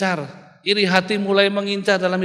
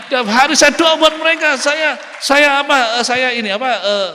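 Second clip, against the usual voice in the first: tearful mother; 8 semitones higher, 5 dB louder than usual. Retold or imitated. Mother weeping over her son.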